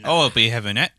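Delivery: put-on British slang; British accent. Shown as a demonstration. Taking a turn in accent contest, British accent. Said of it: "British accent".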